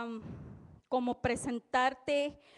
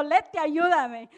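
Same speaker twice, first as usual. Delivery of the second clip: pleading; 3 semitones higher, 6 dB louder, slower than usual. Retold or imitated. Begs Leti for help.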